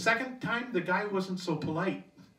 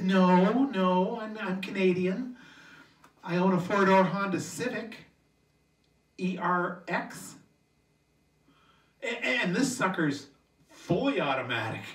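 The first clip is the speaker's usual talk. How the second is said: eager Canadian. Retold or imitated. Canadian bragging about his Honda to the American, mild eager pride. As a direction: earnestly set him straight. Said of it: "I said".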